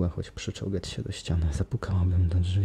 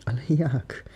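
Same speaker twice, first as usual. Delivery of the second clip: high, helpless whispered moan; 7 semitones higher, 4 dB louder, slower than usual. Acted. Christine moaning to her rescuers, high whispered despair. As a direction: plead it like you're out of hope. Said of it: "jęczała młoda dziewczyna".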